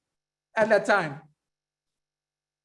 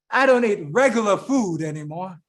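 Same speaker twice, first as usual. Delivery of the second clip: lightly voiced man answering in a lower register; man's reply; 3 semitones lower than usual. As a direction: answer the sister evenly, lightly in character. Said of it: "He said, uh".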